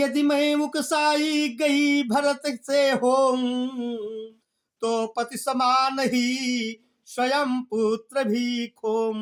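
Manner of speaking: slow, sung-out poem line; slow chanted poetry reading; verse recitation. Acted.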